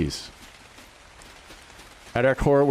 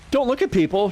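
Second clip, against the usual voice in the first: disbelieving echo with a rising end; mock-baffled echo of her warning; incredulous question; 8 semitones higher than usual. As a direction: repeat it back, baffled. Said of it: "I'm like, "What?".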